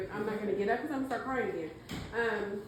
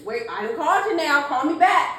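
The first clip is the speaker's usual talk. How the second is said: imitating grandma; 5 semitones higher, 13 dB louder than usual. Retold grandmother's voicemail message.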